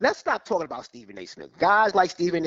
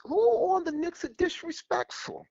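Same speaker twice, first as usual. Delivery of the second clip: high, stunned repeat; incredulous; 13 semitones higher than usual. Real, not acted. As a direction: demand it in disbelief. Caller repeats in disbelief.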